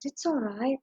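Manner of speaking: soothing, softened voice; calm a hurt animal, gently; gentle reassurance. Acted. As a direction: speak gently, as if easing someone's pain. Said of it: "he spoke very gently".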